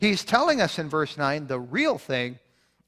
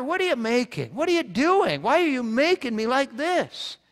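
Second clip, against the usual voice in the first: much higher whiny protest to the potter; complaining clay; 8 semitones higher than usual. Pretend. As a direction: play the indignant pot questioning its maker. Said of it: "does the clay say to the potter".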